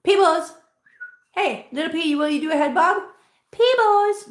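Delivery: high, sing-out call to a cat; coaxing pet talk. Real, not acted.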